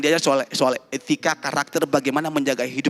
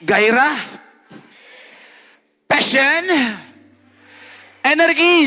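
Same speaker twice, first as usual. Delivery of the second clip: each word higher and louder, building to a cry; building excitement; 8 semitones higher, 5 dB louder, slower than usual. Acted. Preacher firing up the youth, rising to a shout. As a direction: climb with every word till you're shouting.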